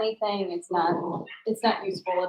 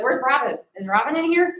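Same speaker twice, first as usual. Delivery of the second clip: dog's voice; 4 semitones higher, 4 dB louder than usual. Retold or imitated. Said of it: "He's like".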